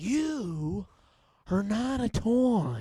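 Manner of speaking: very high, very slow, swooping, "toy" drawn out. Saying a Toy Story line when asked: Nicolas Cage impression. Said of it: "but in Nicolas Cage".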